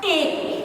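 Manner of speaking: টেংরি said with a closed e sound; টেংরি modelled for pupils; model pronunciation. Shown as a demonstration. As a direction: say টেংরি carefully as a teacher. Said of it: "এটার উচ্চারণ আসবে আবার".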